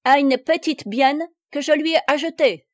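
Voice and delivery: put-on a banker's heavy German accent. A narrator's reading. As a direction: play the old German banker mangling his French. Nucingen's accented speech.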